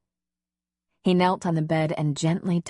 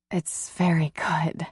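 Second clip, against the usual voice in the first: breathless; slower than usual. Acted. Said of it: "she said breathlessly".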